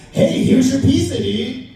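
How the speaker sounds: high goofy dude voice; bright dopey pizza-guy voice. Retold or imitated. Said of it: "and I gave him a voice".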